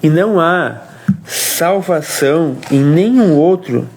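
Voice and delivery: usual speaking voice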